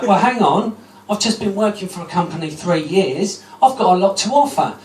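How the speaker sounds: mock outrage at the recruiter; indignant protest. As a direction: stand your ground, affronted. Arguing back with the recruiter.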